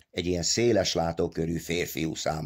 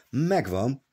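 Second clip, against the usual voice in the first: higher, triumphant exclamation; excited cry; 7 semitones higher than usual. A narrator's reading. Big Joe telling Pion he found it, excited cry. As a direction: announce the find with excitement. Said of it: "kiáltotta".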